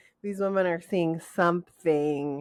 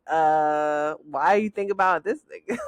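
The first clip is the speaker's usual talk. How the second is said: imitated man; 2 semitones lower than usual. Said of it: "a man would be like".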